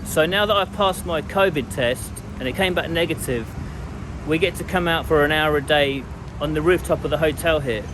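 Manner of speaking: muffled through a mask; talking behind a face mask. Real, not acted. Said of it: "Forgive the mask".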